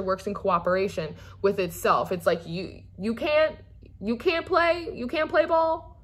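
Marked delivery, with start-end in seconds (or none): 3.0-6.0 emphatic. Real, not acted. Emphatic repeated point.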